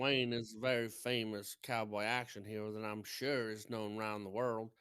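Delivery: put-on cowboy film-hero voice; John Wayne. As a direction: play at being an old movie cowboy. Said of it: "try to talk like John Wayne".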